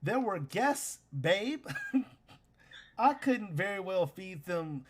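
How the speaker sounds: caught-out husband making high-pitched excuses; flustered protest. Acted. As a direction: plead your case to your partner, trailing into a tiny squeak. Scanlan caught out, defends himself.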